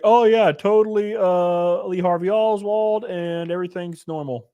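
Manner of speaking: lightly put-on all-is-normal voice; mock official statement. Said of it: "come out and be like".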